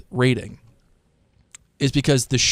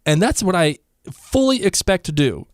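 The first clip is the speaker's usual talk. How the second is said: higher, firm retort, acted; giving the business; 5 semitones higher than usual. Jocasta tells the mob to wait, acted firm telling-off. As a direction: lay down the terms, pitched up. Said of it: "giving them the business".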